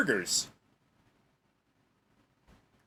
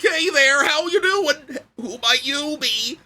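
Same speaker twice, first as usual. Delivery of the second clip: a little higher, lightly bouncy; just a touch less extreme; slightly toned-down cartoon guy; 4 semitones higher, slower than usual. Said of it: "I said slightly".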